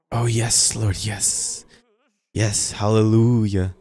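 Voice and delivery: drawn-out, imitated pious praise; mock-devout church murmuring; mock religious voice. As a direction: put on an affected prayer voice. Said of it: "why do we have to talk like this?".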